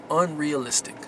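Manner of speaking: "Unrealistic" echoed back in a scornful, different voice; mock repeat. Shown as a demonstration. Vlogger mocking the word critics use, with scorn. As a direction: sneer the word back at the doubters. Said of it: "this word I hate more than anything".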